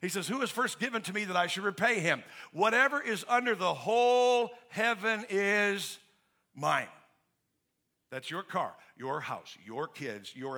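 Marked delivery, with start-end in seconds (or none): 0.3-6.9 God rebuking. Acted. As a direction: thunder it out as a rebuke. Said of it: "This is God rebuking Job".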